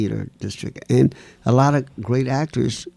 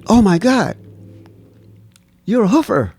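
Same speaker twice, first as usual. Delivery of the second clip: excited; 8 semitones higher, 5 dB louder than usual. Retold or imitated. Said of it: "Then he said".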